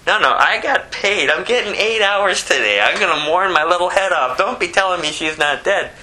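indignant comic scoff; mocking mourner. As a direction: brush him off like a paid professional. Hired mourner mocks Jesus.

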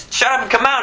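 very high, emphatic command; acted exorcising order, high and abrupt; forceful rebuke. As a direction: drive the demon out with it. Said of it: "But he said".

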